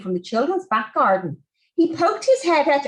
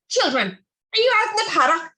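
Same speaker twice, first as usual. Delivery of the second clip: put-on calling children; 6 semitones higher than usual. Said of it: "he shouted".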